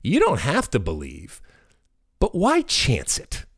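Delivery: put-on persuasive, playful reasoning with the kids, pitch rising high; coaxing parent. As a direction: talk the kids into believing, teasing and sly. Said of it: "And I said".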